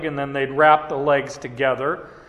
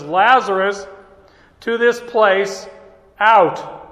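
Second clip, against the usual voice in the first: loud, higher call of Lazarus to this place, out; 4 semitones higher, 4 dB louder than usual. Retold or imitated. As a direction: summon him out plainly but loudly. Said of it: "He says".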